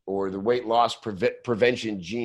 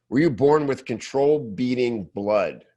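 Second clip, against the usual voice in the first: reading the bullet aloud. Shown as a demonstration. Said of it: "I'm interested in this trailer".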